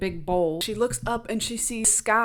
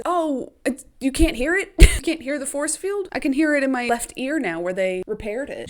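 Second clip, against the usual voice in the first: innocent bluff; 5 semitones higher, 4 dB louder than usual. Retold or imitated. Katniss bluffing about hearing.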